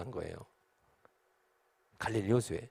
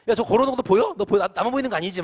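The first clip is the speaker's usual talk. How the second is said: high, loud, alarmed questioning; acted panic; 6 semitones higher, 6 dB louder than usual. One disciple checking others see the figure, acted panic. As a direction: check frantically with your mates, hammed up. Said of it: "비명이겠죠".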